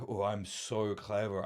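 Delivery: slow, mock smug self-parody. Host mocking how he sounds to viewers, slow mock smugness. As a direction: drawl it like a know-it-all mocking himself. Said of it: "I'm sound like".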